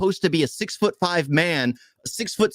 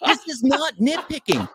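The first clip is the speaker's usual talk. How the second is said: heated protest; 7 semitones higher than usual. Real, not acted. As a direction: push back hard, getting worked up. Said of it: "This boy heated".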